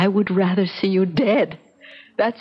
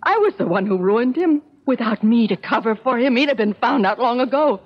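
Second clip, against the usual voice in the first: anguished confession; 4 semitones higher than usual. Acted. Mother's distraught confession to son.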